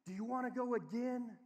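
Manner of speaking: high, upbeat cheering; acted proud praise for a small child; encouraging dad.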